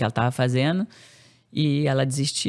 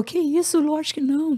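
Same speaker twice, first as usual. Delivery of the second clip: much higher, reassuring quote of husband; brushing off the doubt, lightly voiced; husband's reply; 13 semitones higher than usual. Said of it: "Ele falou". (marido tranquilizando, voz aguda leve)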